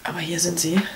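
soft whispered reveal; whispering. Real, not acted. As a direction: whisper it like a secret.

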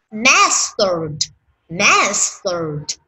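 "Mastered" with the s pushed out and the final d released; clear s and d. Shown as a demonstration. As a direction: pop the s and d of "Mastered". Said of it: "phải bật cái chữ sờ lên". (bật âm s và d trong "Mastered")

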